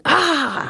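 high mock anguished "ah"; drunken artist's cry. Co-host imitating a drunk artist at her mirror, mock cry. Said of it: "getting drunk and going".

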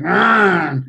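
drawn-out mock racer roar; imitated roar. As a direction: imitate a souped-up boy racer noise. Imitates rowdy young car racers.

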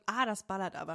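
"ah" as a pleased sigh, "das ballert aber" impressed. Shown as a demonstration. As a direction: savour the strong wine with an appreciative "ah". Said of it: "das ballert, sondern das".

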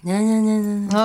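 childish mocking. Mocks mother's backhanded praise.

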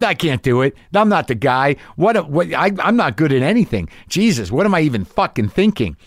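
high, rising panic in a spiral; Who am I cried up high, frantic; panicked self-doubt. Retold or imitated. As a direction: spin out in mock despair. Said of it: "No, let's go like".

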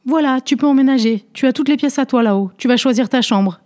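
voix plus aiguë de nièce triomphante, à peine essoufflée; nièce victorieuse. Acted. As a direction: lancer ça d'un air victorieux, plus haut. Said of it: "essoufflée". (la nièce essoufflée, fière, annonce la chambre au narrateur)

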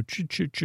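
soft, stuttered "ch" noises; imitated gerbil chitter. Podcaster shows how the pet gerbil chitted, soft imitated chitter. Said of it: "Squeaker squeaked and Chitter chitted".

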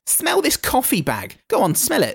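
Bethany's voice. Acted. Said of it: "she comes back up and says".

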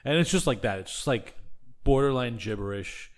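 droning, monotone sleepy talker. Retold or imitated. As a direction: drone on flat and sleepy. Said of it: "in, like, this very monotone voice".

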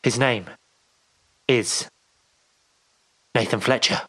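dramatic movie trailer announcer; film trailer voice. Acted. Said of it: "like a kind of film trailer".

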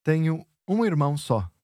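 "só" lifted and stressed at the end; emphasis on só. Shown as a demonstration. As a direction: stress that it's only one brother. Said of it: "I'm just emphasizing the fact that I only have one brother".

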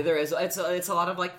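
ordinary talk

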